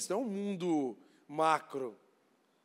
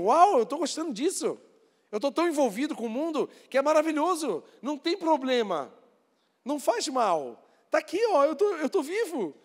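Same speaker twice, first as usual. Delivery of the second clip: much higher and louder, bragging and thrilled; gloating worldly excitement; 7 semitones higher, 4 dB louder than usual. Retold or imitated. A worldly man boasting about his wealth, loud and thrilled. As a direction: show off your riches like a fool in love with the world. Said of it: "A gente começa a amar as coisas do mundo".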